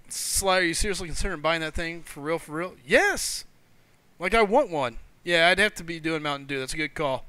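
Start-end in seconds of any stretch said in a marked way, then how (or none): 2.9-5.0 excited yes. Real, not acted. Asked if he'll really buy.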